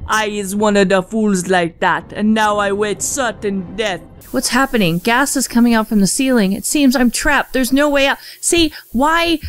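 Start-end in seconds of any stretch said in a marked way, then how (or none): 0.1-4.0 put-on Jamaican accent. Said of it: "apparently he's Jamaican".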